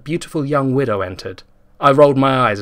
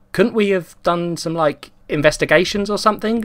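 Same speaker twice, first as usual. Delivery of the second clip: higher, whiny complaint; whine; 6 semitones higher than usual. A narrator's reading. Liam whining from the back seat, in a higher whine. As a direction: whine like a bored kid in the back. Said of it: "Liam whined".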